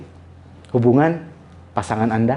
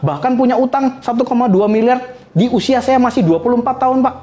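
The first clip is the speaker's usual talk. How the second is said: tearful plea; 7 semitones higher than usual. Retold or imitated. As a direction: beg the teacher like you're crying, voice climbing. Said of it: "Saya nangis sama dia".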